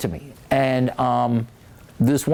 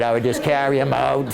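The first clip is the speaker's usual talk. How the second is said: usual speaking voice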